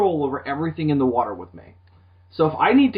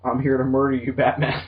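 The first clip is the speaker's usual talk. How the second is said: deadpan sea-god threat, lightly lowered; Aquaman voice; 5 semitones lower than usual. Retold or imitated. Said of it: "That's how Aquaman's gonna talk".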